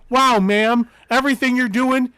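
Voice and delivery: fake-nice office voice. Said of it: "I just have to go".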